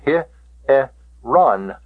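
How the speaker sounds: HE, E, RON as separate syllables. Shown as a demonstration. Teacher breaking hieron up for its pronunciation, syllable by syllable. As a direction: sound out HE... E... RON with gaps. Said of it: "uh, pronunciation".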